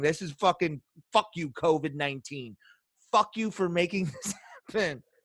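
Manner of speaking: put-on gritted-teeth ranting. Recalling a match the speaker hated watching, retelling a teeth-grinding rant. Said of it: "I'm literally grinding my teeth watching it".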